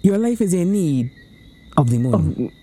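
wag a finger with a chanting moral; mock solemn warning. Rhyming mock sermon.

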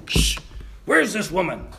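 loud, impatient huff from a waiting father; annoyed father. Acted. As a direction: act out an irritated man kept waiting.

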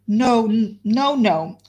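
mild wild cry of denial. Acted. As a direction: refuse it outright, a touch frantic. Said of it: "cried Marianne wildly".

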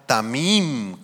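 "tamim" with the accent on the last syllable, ta-MIM; stress on final I. Shown as a demonstration. Preacher teaches the Hebrew word, stressing the "mim" in "tamim". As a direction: lean on the second syllable of "tamim". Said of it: "con acento en la I".

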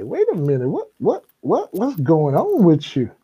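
stammering, incredulous questioning; mock confusion, voice jumping up; retold bafflement. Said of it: "And the man's like".

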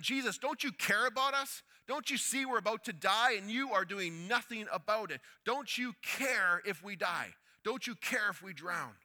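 high, loud, slowing to a pleading fall; cry of frustration. Acted. Disciples rebuke Jesus in the storm, loud and frustrated. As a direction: hurl the accusation, then let it sink. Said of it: "This was a cry of frustration".

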